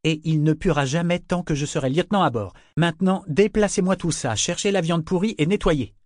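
high, forceful officer's orders; sharp interruption. A narrator's reading. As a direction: cut in and give orders firmly. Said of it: "l'interrompit Althea".

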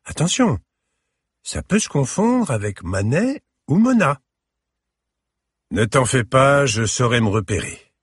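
put-on child voice. A narrator's reading. Child and grandfather exchange.

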